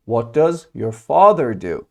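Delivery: slow, evenly separated words for learners; slow model question. Shown as a demonstration. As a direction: model the question slowly and clearly. Teacher models question slowly first. (آهسته و شمرده)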